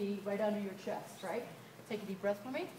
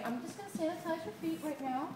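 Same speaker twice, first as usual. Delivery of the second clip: gentle and calming, like at a spa; 5 semitones higher than usual. Shown as a demonstration. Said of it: "You use your spa voice".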